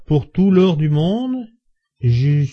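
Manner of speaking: halting, tipsy protest with long breaks and slow, stretched phrases; stammering. A narrator's reading. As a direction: falter between phrases, pitch swinging up, struggling to stay loyal. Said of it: "dit-il en balbutiant". (balbutiant, lent et entrecoupé)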